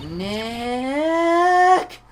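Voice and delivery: shout. Shown as a demonstration. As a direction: yell the name at the camera. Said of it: "not saying it loud enough".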